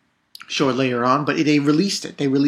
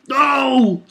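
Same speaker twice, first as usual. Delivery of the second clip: shocked no; 10 semitones higher, 5 dB louder than usual. Retold or imitated. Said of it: "Nami and Frankie's body was like".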